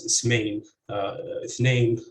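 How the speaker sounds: "ismain" and "ithnain" stressed on the final "main" and "nain"; end-stressed "ismain", "ithnain"; second-syllable stress. Shown as a demonstration. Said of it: "with stress on the second".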